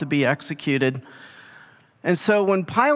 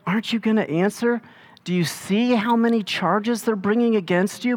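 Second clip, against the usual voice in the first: agitated; 5 semitones higher than usual. Retold or imitated. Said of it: "you can tell he's agitated".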